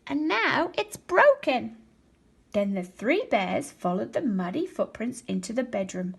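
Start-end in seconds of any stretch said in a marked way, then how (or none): 0.1-1.8 higher, louder cub voice; a tiny bear cub close to tears; Baby Bear discovering his chair is broken, small and high; little Baby Bear voice. A narrator's reading. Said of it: "in his little voice".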